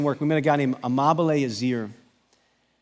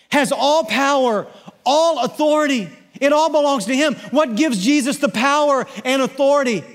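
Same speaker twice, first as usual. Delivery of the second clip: much higher and louder, fervent sermon climax; full-force preaching; 11 semitones higher, 7 dB louder than usual. Acted. Pastor proclaims Jesus has all authority, full-force preaching. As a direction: proclaim it like a rallying cry.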